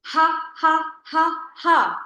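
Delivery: loud ha ha with the mouth wide open; forced laughter. Shown as a demonstration. Teacher leading laughter yoga, loud forced laugh. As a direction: laugh it out on the breath. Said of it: "Open your mouth".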